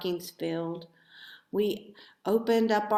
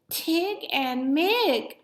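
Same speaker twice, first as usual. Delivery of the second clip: exclaimed; 9 semitones higher, 5 dB louder, slower than usual. A narrator's reading. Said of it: "I exclaimed".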